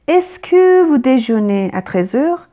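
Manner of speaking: slow, clear dictation pace; slow classroom example with "est-ce que"; slow teacher read. Shown as a demonstration. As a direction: spell it out word by word for learners. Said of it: "Par exemple".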